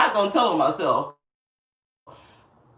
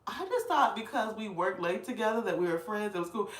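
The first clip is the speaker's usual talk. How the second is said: sheepish; 12 dB quieter than usual. Retold or imitated. Narrator answers sheepishly.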